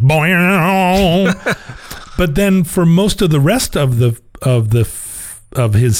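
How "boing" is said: slapstick sound effect; cartoon boing. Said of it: "Laurel and Hardy way of, like".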